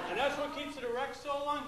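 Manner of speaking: high, amused dad question; dad asks a bit too loud, half laughing. Retold or imitated. Dad asking Julie in the theater, high and amused.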